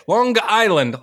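"Long Island" with the G sounded clearly before "Island"; hard G in Long Island. Shown as a demonstration. Demo for the cohost, stressing the G in "Long Island". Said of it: "We gotta say it like that".

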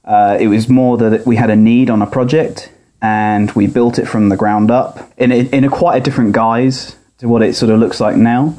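tinny audio through laptop speaker; thin, boxy speaker sound. Real, not acted. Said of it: "recorded from his laptop speaker".

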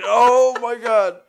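loud, very high exclamation; real excited outcry. Real, not acted. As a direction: burst out laughing and shouting in delight. Co-host thrilled recalling the line.

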